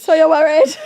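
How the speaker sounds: mock Scottish-accented question; exaggerated Scottish accent; full Scottish. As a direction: go all-in on a Scottish imitation. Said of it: "but full Scottish".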